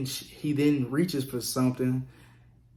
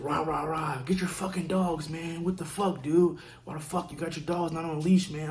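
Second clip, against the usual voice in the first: higher, mock-aggressive yelling at the dog walker; imitating an angry neighbor; 4 semitones higher than usual. Neighbor yelling at him to leash his dogs, mocking angry voice. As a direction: play the tweaker neighbor barking complaints.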